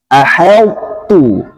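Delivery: slow "Aheltu" with thin light h. Shown as a demonstration. Teacher models the correct thin reading. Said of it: "harus tipis ya".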